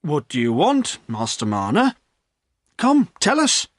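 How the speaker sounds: lightly voiced landlord asking. A narrator's reading. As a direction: urge the visitor to speak. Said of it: "Then the landlord spoke".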